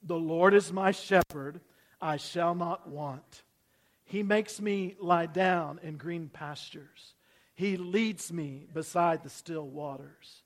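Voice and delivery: slow, measured psalm reading; scripture recitation. Acted. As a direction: recite it slowly with the congregation. Leads congregation reciting Psalm 23.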